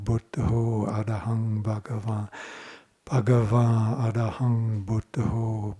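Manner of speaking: even, monotone chant-like loop with held vowels; mantra recitation. Shown as a demonstration. Meditation teacher giving the group a favorite mantra, measured recitation. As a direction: recite it in a steady, measured rhythm. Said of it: "And it goes".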